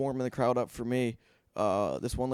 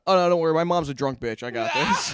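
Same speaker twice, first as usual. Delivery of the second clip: retorting to hecklers; 3 semitones higher, 6 dB louder than usual. Retold or imitated. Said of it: "And I go".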